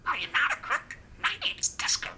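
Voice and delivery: tiny squeaky budgie voice; chirpy little bird mimicking speech; parakeet chatter. Real, not acted. Budgie Disco introducing himself.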